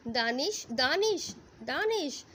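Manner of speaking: rising urgent calls of a name; calling out. Acted. Bride calling for her husband in panic, rising calls.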